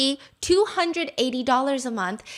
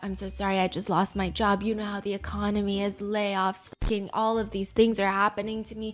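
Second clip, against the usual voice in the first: quiet, pitiful begging for more time; mock sorry pleading; 5 semitones lower, 7 dB quieter than usual. Broke tenant meekly begging the landlady for time. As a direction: beg the landlady softly like you're broke. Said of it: "Some people are like".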